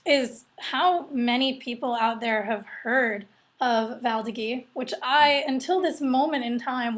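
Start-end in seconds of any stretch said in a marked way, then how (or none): 4.0-4.6 Val d'Agay ending in a "ghee" sound; current pronunciation. Shown as a demonstration. Host naming an obscure grape, current pronunciation ending in "ghee". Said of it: "was pronouncing".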